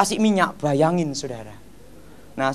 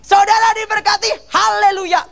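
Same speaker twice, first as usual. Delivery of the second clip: high, loud hammed-up haleluya; imitating the preacher's blessing; 13 semitones higher, 4 dB louder than usual. Preacher blessing the sorcerer, mimicked high and loud. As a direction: bellow the blessing like a revival preacher. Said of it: "Dia ngomong gini".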